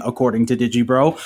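ordinary delivery

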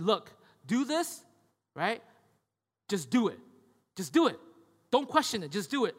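a lightly voiced bossy grandmother; grandma insisting. Grandma telling her grandson to just do it, insistent.

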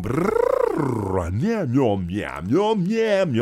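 imitated singers' lip trills and meows; mock the singers warming up their voices; vocal warm-up noises. Imitating singers warming up with trills and meows. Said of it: "And they're going".

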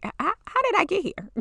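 baffled at your own tears; bewildered. Retold or imitated.

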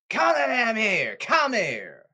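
angry summons. Real, not acted. Ranter summoning the Mets owner, angry call. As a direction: order someone over, loudly.

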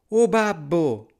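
put-on high, loud, slow little-boy call; eager exclamation. A narrator's reading. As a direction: call out to dad in a high child voice. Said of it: "esclamò Pollicino". (esclamazione acuta da bambino)

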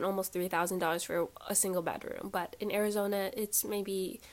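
blocked nose, stuffy voice. Real, not acted. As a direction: talk through a stuffy nose. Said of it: "I'm, like, stuffy".

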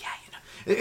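mock hard-to-hear whisper. Whisperer making the listener lean in, whispered. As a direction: whisper it so it barely carries. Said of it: "when you whisper".

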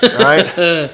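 excited voice breaking up high; voice cracking up an octave. Real, not acted. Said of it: "My voice just cracked for this".

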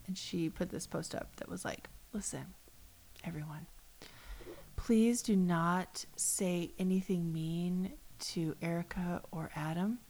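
imitating a pleading whisper. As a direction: hush it like a secret plea. Quoting post in hushed tone.

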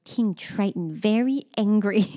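a hint of a slow, solemn little announcer; slow and serious like a child reporting news; mock toddler gravity. Mother imitating daughter announcing the angry king, lightly solemn. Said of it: "she'd whip up her head and go".

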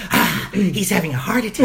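lightly voiced sinister sidekick; a hint of an Igor-like lackey; Peter Lorre. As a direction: imitate a creepy little henchman lightly. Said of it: "little Peter Lorre character or Igor".

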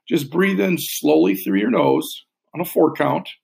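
slow, steady guided breathing cue; slow breath counting. Shown as a demonstration. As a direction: talk them slowly through the inhale. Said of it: "I'll walk us through all these".

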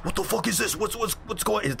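high-pitched baffled warden. Acted. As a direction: play the warden confused, up high. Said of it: "talks to someone from the side and goes".

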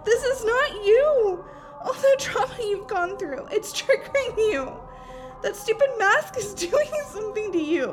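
tearful appeal to a possessed friend; anguished, uneven pleas; desperate pleading. Acted. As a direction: beg through tears.

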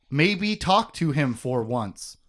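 slow, measured delivery of a quote; slow and pointed; deliberate quote. Retold or imitated. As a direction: quote it slowly, word by word. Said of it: "like, and I quote, she says".

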